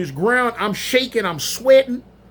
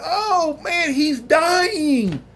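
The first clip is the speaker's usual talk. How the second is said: high, very slow drawn-out alarmed wail; mock panic over the dying man; somebody hollering; 8 semitones higher, much slower than usual. Bystander hollering that the man is dying, mock panic. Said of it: "I heard somebody hollering".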